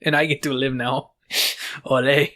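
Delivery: put-on Hispanic accent; mock Hispanic-accented ghost; hammed-up Hispanic accent; Hispanic ghost impression. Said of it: "you don't talk like that".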